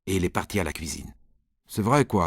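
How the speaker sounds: ordinary delivery, nothing marked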